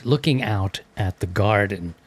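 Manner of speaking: Looking out at the garden in a mock posh British accent. Shown as a demonstration. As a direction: play it like an Englishman admiring his garden. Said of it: "with my best British accent".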